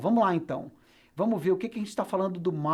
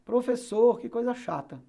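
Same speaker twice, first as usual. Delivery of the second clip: higher, whining pupil complaint; complaining student; 4 semitones higher than usual. Acted. Teacher voices a bored student objecting, complaining. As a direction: groan about the rule as a student.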